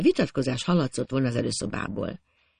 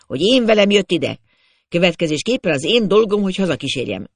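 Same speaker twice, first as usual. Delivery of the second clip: angry through teeth; 5 semitones higher, 6 dB louder than usual. A narrator's reading. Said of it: "dühösen, összeszorított fogakkal".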